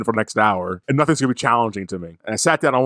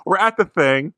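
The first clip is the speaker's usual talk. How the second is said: sarcastic high-pitched great, much higher; mock enthusiasm; 8 semitones higher, slower than usual. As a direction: fake excitement, pitched way up. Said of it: "I'm thinking to myself".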